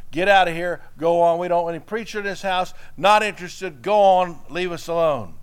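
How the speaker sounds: loud, gruff get-out order; angry father. Acted. Father chasing the preacher from his door, loud and angry. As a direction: throw the preacher out of the house.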